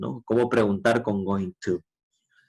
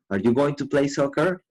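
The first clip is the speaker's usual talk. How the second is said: rising question tune ending up on "soccer"; question intonation; 2 semitones higher than usual. Shown as a demonstration. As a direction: let the pitch climb to the end of "soccer?". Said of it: "Tienes que darle también ese tono de pregunta". (entonación de pregunta que sube al final en "soccer")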